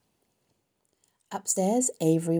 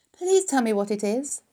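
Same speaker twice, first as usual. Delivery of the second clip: high, louder plea; begging; 5 semitones higher, 6 dB louder than usual. A narrator's reading. Wilbur begs Charlotte to tell her secret, pleading. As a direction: beg to be let in on it. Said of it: "begged Wilbur".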